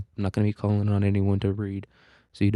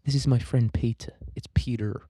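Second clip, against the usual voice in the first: a light mock Lois Griffin voice, Peter with no R; teacher imitating Lois Griffin, dropping the R in Peter; Lois Griffin impression; 2 semitones higher than usual. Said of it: "almost like Lois Griffin".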